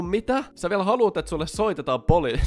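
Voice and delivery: can't believe what he just heard; disbelief. Real, not acted. Disbelief at grandpa's demand.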